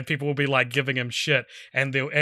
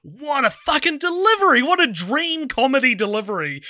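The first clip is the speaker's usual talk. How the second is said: high-pitched exclamation of awe; amazed admiration; 11 semitones higher, 3 dB louder than usual. Retold or imitated. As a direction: marvel aloud, pitch soaring. Reliving amazed first viewing.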